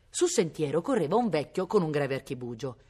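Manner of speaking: ordinary delivery, nothing marked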